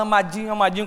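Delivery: mock sweetness. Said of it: "aquele que fala".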